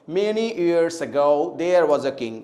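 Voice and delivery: very slow, low model sentence, "ago" as "uh-GO"; correct pronunciation. Shown as a demonstration. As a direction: read deliberately, pressing on "go" in "ago". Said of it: "अ पे जोर नहीं देंगे". (धीमा नमूना वाक्य, "ago" में "गो" पर ज़ोर)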